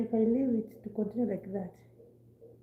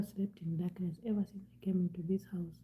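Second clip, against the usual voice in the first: soft whispered aside; 8 dB quieter than usual. Real, not acted. Whispered confession.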